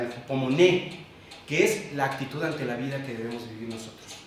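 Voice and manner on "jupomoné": jupomoné with the stress on final NÉ; acento en la E. Shown as a demonstration. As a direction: lower jupomoné, rising onto the accented é. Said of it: "termina con acento en la E". (jupomoné acentuado en la é final)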